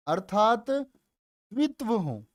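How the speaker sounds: slow, careful dictation; teacher dictating for students to copy. Shown as a demonstration. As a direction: spell the rule out slowly. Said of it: "ऐसे लिख लो".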